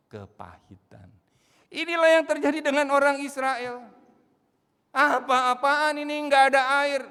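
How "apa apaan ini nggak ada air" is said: loud, high indignant outburst; angry complaint. Retold or imitated. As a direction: shout your outrage that there is no water. Israelites complaining about water.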